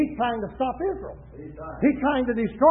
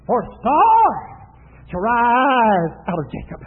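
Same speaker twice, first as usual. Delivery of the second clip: swelling prophecy; 2 semitones lower, 6 dB louder, slower than usual. Retold or imitated. Preacher quotes Balaam's prophecy of the star, swelling proclamation. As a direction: let the prophecy rise and fall slowly.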